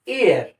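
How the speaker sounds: "ईयर" as year, with a slight y glide; light "ya" sound. Shown as a demonstration. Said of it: "ऐसे बोलना है आपको".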